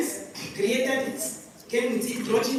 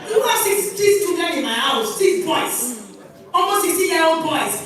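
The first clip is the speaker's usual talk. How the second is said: louder, higher indignant rant; 4 semitones higher, 4 dB louder than usual. Real, not acted. Mother ranting about six teenage boys at a party, loud and indignant.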